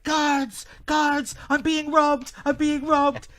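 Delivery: high, loud cry for the police; re-enacted high-pitched alarm shout. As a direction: yell for help out of a window. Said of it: "I just shouted out".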